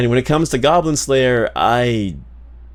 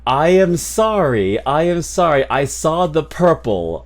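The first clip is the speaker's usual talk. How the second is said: emphatic apology; 4 semitones higher than usual. Real, not acted. Exaggerated apology for misreading a name.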